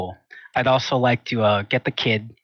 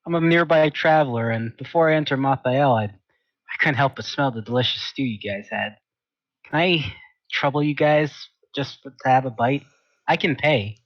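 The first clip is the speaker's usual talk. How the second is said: politely smiling, lightly acted; a mildly ingratiating traveler's plea; genuine smile; 3 semitones higher than usual. Traveler asking the family for stew, mildly friendly. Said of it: "I give a nice, genuine smile".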